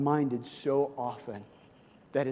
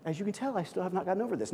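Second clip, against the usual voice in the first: teasing aside; 4 semitones higher, 5 dB quieter, much faster than usual. Real, not acted. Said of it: "No, I'm teasing".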